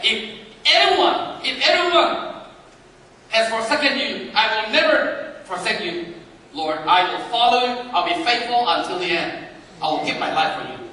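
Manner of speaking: eager Peter. Acted. Voicing Peter's bold promise.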